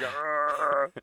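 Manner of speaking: drawn-out groan, put on; mock groan. Marty carried off on a stretcher, mock groan. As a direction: groan like a knocked-out man. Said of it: "Marty's like".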